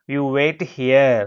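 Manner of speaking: each word spelled out slowly for learners. Shown as a demonstration. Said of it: "అని ఈ విధంగా మనం చెప్తూ ఉంటాము". (చాలా నెమ్మదిగా, ఒక్కొక్క పదం విడిగా)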